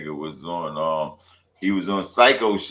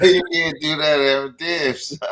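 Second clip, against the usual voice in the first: high, loud, laughing protest; excited laughing outcry; 9 semitones higher, 7 dB louder than usual. Real, not acted. Friend laughing at Aaron's move, excited outcry. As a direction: cry out in delighted disbelief. Reacting to Aaron kicking Dev.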